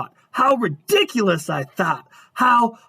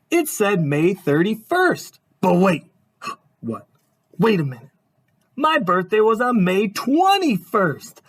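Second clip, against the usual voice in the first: storybook narration. A narrator's reading. Reads picture book aloud.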